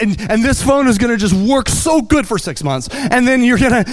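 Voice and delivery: a loud, eager pitch from a phone salesman; overexcited salesman. Retold or imitated. Salesman hyping a phone contract.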